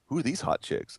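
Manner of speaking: high, quiet put-on alien voice. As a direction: voice a goofy alien. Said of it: "and the alien goes".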